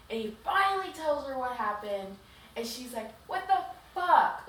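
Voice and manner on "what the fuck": high, loud, drawn-out disbelief; stunned, drag out the outrage; shocked outburst. Acted. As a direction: heroine shocked after he finally tells her what happened. Heroine shocked by his confession.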